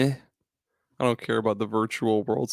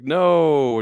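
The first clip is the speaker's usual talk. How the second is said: Joey; 4 semitones higher, 7 dB louder than usual. Retold or imitated. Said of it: "Joey's like".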